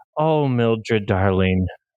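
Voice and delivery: sorrowful, almost crying. A game master voicing a woman character speaking to a player's character, sad, near tears. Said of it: "a little bit of like sadness".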